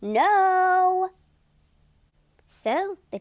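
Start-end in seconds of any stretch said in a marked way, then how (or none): 0.0-1.1 a loud, stubborn no; defiant no. A narrator's reading. Thomas refusing the teacher, loud and defiant. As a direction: plant your feet and refuse. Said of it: "And Thomas said".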